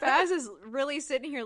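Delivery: giggling disbelief; laughing. Real, not acted. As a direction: laugh while getting the words out. Laughing at the scene.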